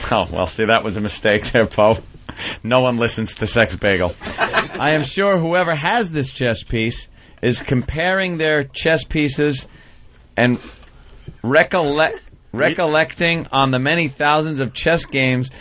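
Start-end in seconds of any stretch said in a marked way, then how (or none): 4.2-15.5 sarcastic reading. Acted. Host reads a complaint letter about a chess piece, sarcastically. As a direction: read it with mock solemnity, dragging each phrase. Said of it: "Was that sarcasm?".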